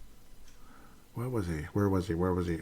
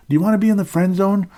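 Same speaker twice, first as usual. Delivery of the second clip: emphatic rhetorical question; 10 semitones higher, 7 dB louder than usual. Real, not acted. Rhetorical challenge to listeners.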